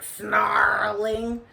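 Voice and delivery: "snarling" drawn out slowly; snarling emphasis. A narrator's reading. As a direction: stretch "snarling" like the varmint doing it. Acting out the varmint's snarling.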